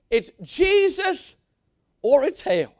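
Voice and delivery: a hint of an old-time preacher, slow and stretched on "Jesus"; old-timer preacher. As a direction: lightly mimic the old timers' pulpit cry. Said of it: "how the old timers used to say it".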